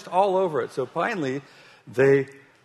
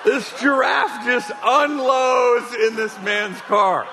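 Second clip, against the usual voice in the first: can barely keep a straight face; preacher cracking up at the giraffe tale; laughing through story; 7 semitones higher than usual. Retold or imitated. Retelling absurd giraffe story.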